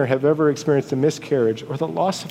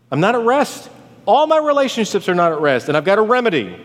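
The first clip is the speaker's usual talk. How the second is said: higher-pitched, insistent complaint; impassioned lament; 6 semitones higher, faster than usual. Acted. Preacher voicing suffering Job to God, impassioned lament. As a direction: lament it, pressing the point. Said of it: "This is a lament".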